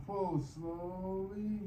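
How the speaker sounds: long, stretched "slowly"; slow exercise cue. Real, not acted. Exerciser paces the third pull, drawn out. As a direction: draw the word out with the pull.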